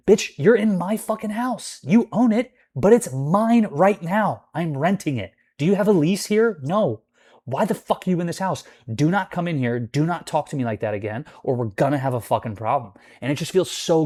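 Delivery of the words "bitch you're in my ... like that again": heated rant. Retold or imitated. Ranting at landlord.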